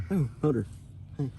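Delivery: dirt in mouth. Real, not acted. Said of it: "I got dirt in my mouth".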